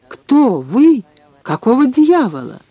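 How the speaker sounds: high-pitched indignant demand; alarmed outcry. A narrator's reading. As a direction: challenge an intruder, startled and cross. Startled old man challenges intruder. (возмущённый испуганный вскрик)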